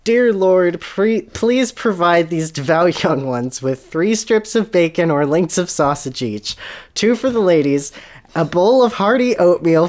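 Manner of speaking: slow, high, loud preacher's prayer; hammed-up revival prayer. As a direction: preach the breakfast order to the heavens, laughing through it.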